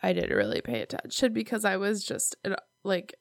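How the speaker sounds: talking with nose held shut; pinching nose. Real, not acted. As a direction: hold your nose while talking. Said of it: "I'm holding my nose, listeners".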